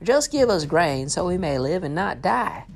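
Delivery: starving villagers pleading with their lord; desperate plea. Acted. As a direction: beg for your life. Starving people plead with Joseph.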